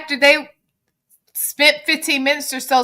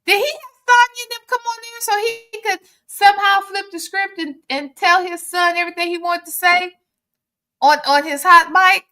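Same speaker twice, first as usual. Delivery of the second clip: high mock quote; 8 semitones higher than usual. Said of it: "I said".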